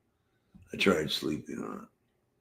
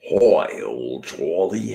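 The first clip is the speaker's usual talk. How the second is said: loud bright "Hi", then a slow name; light up when you spot him; excited greeting; 2 semitones higher, 7 dB louder, slower than usual. Real, not acted. Greeting a chatter.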